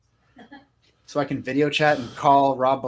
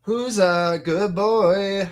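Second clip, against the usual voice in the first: talking to a dog; 5 semitones higher, much slower than usual. Real, not acted.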